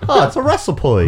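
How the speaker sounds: put-on broad Skippy-style Australian accent. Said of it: "you sounded like an Australian from, like, Skippy in the eighties".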